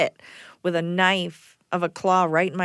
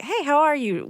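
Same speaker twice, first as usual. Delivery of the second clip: friendly greeting; 9 semitones higher than usual. Shown as a demonstration. Models a simple friendly greeting.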